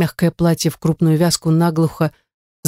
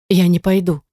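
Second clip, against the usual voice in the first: a hint of a squeaky, teary girl; sniffly squeak. A narrator's reading. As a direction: pout it out through a sniffle. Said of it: "шмыгнув носом, пропищала она".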